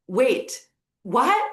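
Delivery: mildly excited, rising on "what"; mock excitement. Man hearing of nirvana from dad, lightly excited. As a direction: imitate someone pleasantly astonished. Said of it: "the guy gets super excited".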